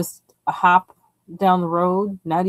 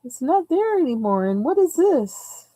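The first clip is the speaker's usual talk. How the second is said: amused astonishment; 10 semitones higher, 4 dB louder than usual. Retold or imitated. Driver seeing the restaurant gone, retold with amused astonishment. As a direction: replay the shock with exaggerated swooping highs. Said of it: "That was so funny when I drove by".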